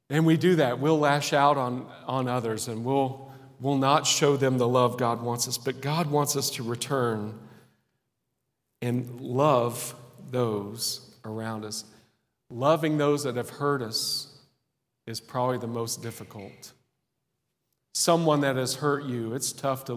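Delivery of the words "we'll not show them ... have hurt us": usual speaking voice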